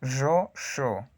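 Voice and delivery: buzzing "Yo" said as zho, then hissed "sho"; voiced-voiceless contrast. Shown as a demonstration. Teacher drills the two consonants for learners, voiced then voiceless. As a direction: drop the buzz from "Yo" to "sho". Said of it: "no hay vibración en mis cuerdas vocales".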